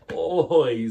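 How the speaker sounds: a big, high groaning "Oy"; loud oy. Acted. Missus Greenberg reacting to the spilled egg, exasperated. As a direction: let it burst out, exasperated. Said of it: "said Missus Greenberg".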